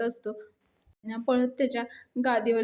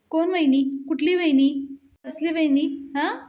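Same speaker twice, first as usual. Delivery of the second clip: loud, higher, indignant questions; irritated; 5 semitones higher, 5 dB louder than usual. Acted. Palya rejects Dhanya calling her sister-in-law, loudly irritated. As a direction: fire off each challenge with raised voice. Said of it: "त्याच्यावर पण चिडतो".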